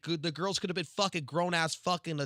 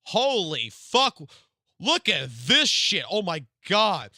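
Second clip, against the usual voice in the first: real excitement; 2 semitones higher, 6 dB louder, slower than usual. Real, not acted. Streamer sees leaked character model.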